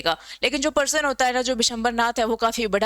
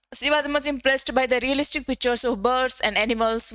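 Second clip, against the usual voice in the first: slow, careful textbook reading; reading the text aloud; 2 semitones higher, much slower than usual. Shown as a demonstration. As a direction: read it out word by word for the class. Reads the English textbook line.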